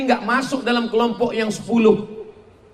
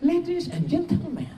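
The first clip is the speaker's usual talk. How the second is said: high, soft, airy flight-attendant announcement; mock the airy cabin announcer; airy stewardess voice; 9 semitones higher, 7 dB quieter than usual. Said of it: "Kenapa mesti ada angin-anginnya gitu?".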